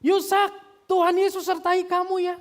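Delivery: full-voiced, very high shout; loud, soaring call to a son; Bapak Pendeta Ceng Kim Guan shouting. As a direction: holler it across a car park. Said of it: "Bapak Pendeta Ceng Kim Guan gogorowokan".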